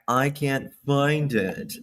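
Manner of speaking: slow, stretched imitation accent; K K's fake accent. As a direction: mimic her accent with drawn-out words. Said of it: "She drives me nuts with that one".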